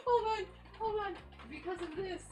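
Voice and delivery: high, giggly, catching breath; trying to stop laughing. Real, not acted. Laughing too hard to go on.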